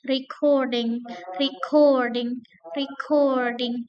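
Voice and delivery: recording, slow, COR stressed. Shown as a demonstration. Teacher drilling recording with COR stressed. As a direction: lean on COR. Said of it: "stressnya ada pada second syllable".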